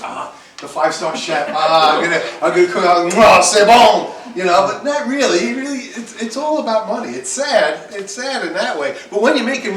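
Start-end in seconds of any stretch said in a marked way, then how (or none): 0.0-4.1 mock fancy chef. Teacher mocks students' dreams of being a fancy chef, hammed up and loud. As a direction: play a pompous five-star chef. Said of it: "you wanna be like".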